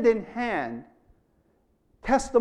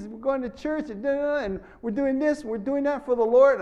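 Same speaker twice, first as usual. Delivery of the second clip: put-on higher, bright retelling of a grown-up girl's message; cheerful woman on Facebook; 5 semitones higher than usual. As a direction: lightly voice her happy update, a bit higher. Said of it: "I got a Facebook".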